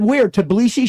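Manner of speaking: loud, high-pitched eager guess; retold eager question. Man asking the waitress which part of Georgia, excitedly.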